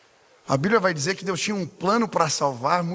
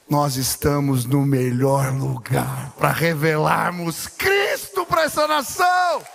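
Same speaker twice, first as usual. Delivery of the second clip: preaching at full force; 9 semitones higher, slower than usual. Acted. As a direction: shout it over the congregation. Preaching climax, shouting.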